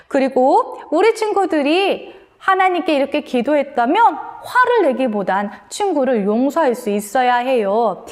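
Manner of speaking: ordinary talk, nothing marked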